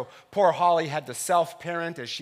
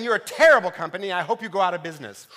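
louder, fast and cutting; angry retort; 6 dB louder, faster than usual. Retold or imitated. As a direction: tell off the company on the phone. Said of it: "I ended by saying".

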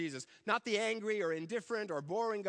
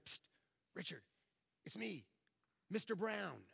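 hushed, much softer aside; secret reveal; 7 dB quieter than usual. Retold or imitated. Family friend reassures the frightened boy, hushed. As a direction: lean in and let him in on the secret.

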